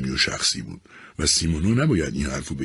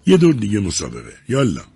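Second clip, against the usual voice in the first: louder, higher call; wife shouting to her colleague to race again, louder; 4 semitones higher, 5 dB louder than usual. A narrator's reading. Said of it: "سیمونا داد زد".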